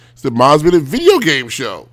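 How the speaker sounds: slow, with weight on "video"; mocking emphasis. Shown as a demonstration. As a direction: parody her showy title delivery. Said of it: "if you put an emphasis on the word".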